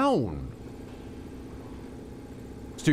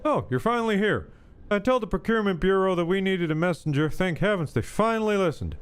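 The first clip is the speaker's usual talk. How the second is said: higher, relieved game worker, lightly acted; lightly voiced impatient worker; 4 semitones higher than usual. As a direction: read the worker's dialogue a little higher, falling away at the end. Reads a game character's dialogue aloud.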